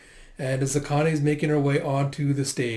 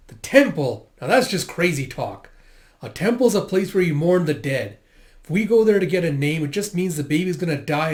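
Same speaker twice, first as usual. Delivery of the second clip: louder, exasperated retort; indignant wife; 2 semitones higher, 4 dB louder than usual. Acted. Wife rejects the temple idea, loud and indignant. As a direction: shoot the idea down hard.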